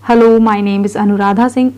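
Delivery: hello, then a pause, then my name is Anuradha Singh; pause after hello. Shown as a demonstration. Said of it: "तो hello बोलने के बाद रुके". (hello के बाद रुककर बोलना)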